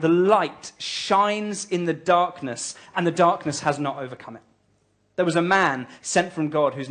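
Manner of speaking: slow, solemn Bible reading; scripture reading. Acted. Pastor reading John's prologue to the congregation, slow and solemn. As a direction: let each phrase of the Word land slowly.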